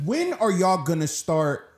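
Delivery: upset, insistent demand; real upset. Real, not acted. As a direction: press the question with real frustration. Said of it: "I'm getting so upset".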